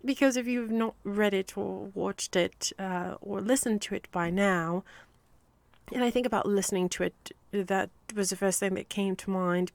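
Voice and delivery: amateur put-on British accent; attempted British accent. Shown as a demonstration. Telling listeners about rereading the series in an attempted British accent. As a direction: keep up an imperfect British accent. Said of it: "I'm gonna choose a British accent".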